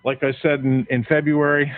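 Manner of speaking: winded, breathing hard between words. Real, not acted. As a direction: still panting from the stairs. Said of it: "sorry, I'm a little out of breath".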